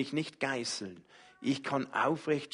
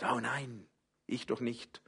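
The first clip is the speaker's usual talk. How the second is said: soft, shrinking denial; softer, hesitant brush-off; timid self-doubt; 6 dB quieter than usual. Pretend. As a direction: back away from it quietly. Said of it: "die sagt".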